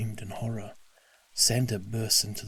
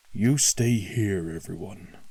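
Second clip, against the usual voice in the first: angry order; 7 dB louder than usual. Acted. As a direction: bark the order. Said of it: "he ordered".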